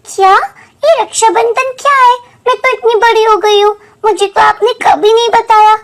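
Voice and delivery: put-on curious child demanding an explanation; puzzled surprise. Child puzzled, asks what festival is.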